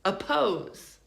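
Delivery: "oppose" as uh-POZE; light uh, then stressed POSE in "oppose"; correct schwa. Shown as a demonstration. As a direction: reduce the start of "oppose". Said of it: "We say".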